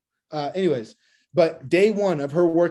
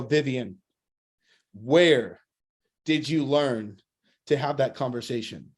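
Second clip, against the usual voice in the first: low, halting, word-group by word-group; incredulous questioning; 5 semitones lower, slower than usual. Retold or imitated. Boss asking new hire where she learned it, incredulous. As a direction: drop your voice and pause in disbelief.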